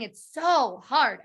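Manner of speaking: slow, whiny so hard; whiny drawn-out complaint. Retold or imitated. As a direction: moan it out, defeated. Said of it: "She always kept saying".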